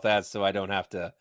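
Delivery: muffled behind a hand; hand over mouth. Real, not acted. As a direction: talk through your fingers. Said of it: "I have my hand over my mouth".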